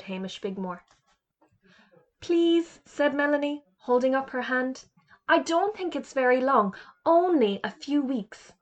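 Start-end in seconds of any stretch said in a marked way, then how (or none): 2.2-8.5 put-on eager little girl. Eager girl answers teacher.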